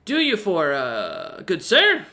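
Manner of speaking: high, eager little owl voice; chirpy owl innkeeper. Acted. Owl innkeeper welcoming Roloman, high and eager.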